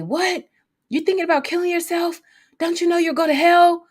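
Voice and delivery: shocked, high and loud mock outrage; judgmental shock. Shown as a demonstration. Counselor demoing the wrong, judgmental reaction, shocked and loud. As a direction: play the shocked judge, voice climbing. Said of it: "you don't wanna say".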